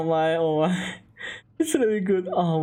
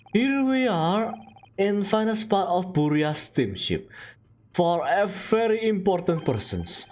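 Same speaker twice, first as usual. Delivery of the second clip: put-on Russian-accented sailor. Sailor showing visitors the first-class cabins, Russian accent. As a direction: show off the ship in Russian accent.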